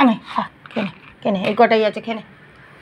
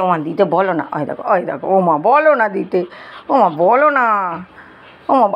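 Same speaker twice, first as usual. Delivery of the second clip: voicing Mixi; 6 semitones lower than usual. Owner voices Mixi begging mom, lower and pleading. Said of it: "আর মিক্সি বলছে".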